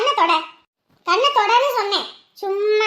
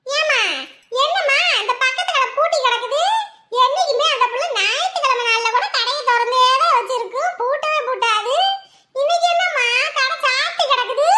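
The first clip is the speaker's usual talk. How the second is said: curious customer; 5 semitones higher than usual. Acted. Customer asking about closed shop.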